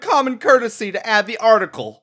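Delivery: loud barking drill instructor; drill sergeant. Acted. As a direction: bark it like a boot camp sergeant. Mock drill sergeant berating.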